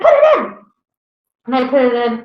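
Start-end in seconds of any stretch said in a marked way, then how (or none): 0.0-0.6 high, loud stern order; mock stern command. Mom ordering her teen to play the tape, loud stern order. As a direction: bark it like an angry mother. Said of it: "She's like".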